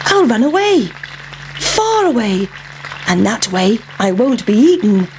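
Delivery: a lightly voiced pancake making a plan; scheming pancake. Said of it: "thought the pancake".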